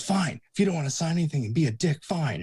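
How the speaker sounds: put-on thirteen-year-old fan giving up, huffy; sulky kid. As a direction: storm off in a huff. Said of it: "the kid goes".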